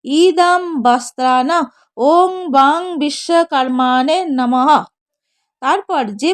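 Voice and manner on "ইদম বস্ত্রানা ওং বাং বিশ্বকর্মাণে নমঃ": mantra recitation. Shown as a demonstration. Priest showing worshippers how to say the mantra, slow chant. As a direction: intone it like a priest at puja. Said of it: "মন্ত্র বলবেন".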